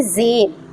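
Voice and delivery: ज़ेर drawn out with a downward glide; voice going down. Shown as a demonstration. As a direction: let the voice sink through ज़ेर. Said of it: "ज़ेर की आवाज़ नीचे जाती है".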